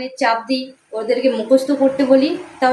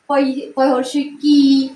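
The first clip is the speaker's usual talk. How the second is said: slow spelling out; slower than usual. Shown as a demonstration. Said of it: "এগুলো আমরা ছোট ছোট বানানগুলো পড়বো আগে".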